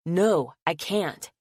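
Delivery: slow, firm comeback, a touch annoyed; annoyed retort. Acted. Logan answers Jackson, a mild annoyed slow retort. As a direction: push back, not giving an inch. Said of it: "Logan shoots back in annoyance".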